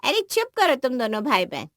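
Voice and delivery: mildly exasperated telling-off; scolding. Acted. Mother quieting bickering brother and sister, scolding. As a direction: hush the squabbling pair sharply.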